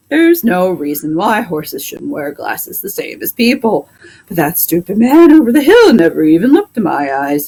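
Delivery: a fed-up horse complaining about his vet; talking horse. Acted. Plow horse complains to the doctor about the vet, grumbling horse voice.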